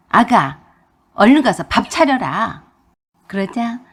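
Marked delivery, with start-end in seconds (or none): 0.1-2.6 loud command to the new mother; a mother-in-law ordering her daughter-in-law to cook; bossy order. Acted.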